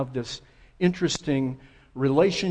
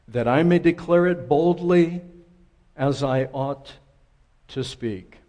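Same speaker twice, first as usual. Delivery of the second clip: scripture reading. Acted. Pastor reading the Bible passage to the congregation, formal reading. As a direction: proclaim the text to the congregation.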